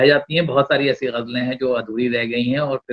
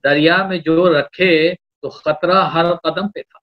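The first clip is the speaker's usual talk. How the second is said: slow measured couplet delivery; poetry recitation. Acted. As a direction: lean into each line of verse.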